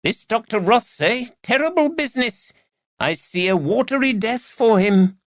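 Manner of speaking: high, piercing witchy gossip; ominous old crone, penetrating. A narrator's reading. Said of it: "Her voice was quite penetrating".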